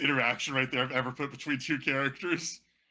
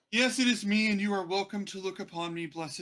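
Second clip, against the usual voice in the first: high, loud proclamation; grandiose noble; 8 semitones higher, 6 dB louder than usual. Acted. Vain lord presenting himself to the party, grandly. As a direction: announce himself like a vain god. NPC grand self-introduction.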